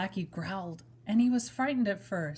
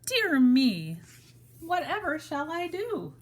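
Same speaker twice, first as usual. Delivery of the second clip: high and loud, at a loss; distressed wail; 8 semitones higher, 4 dB louder than usual. Acted. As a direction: fret aloud like a lost little bunny. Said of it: "he wailed".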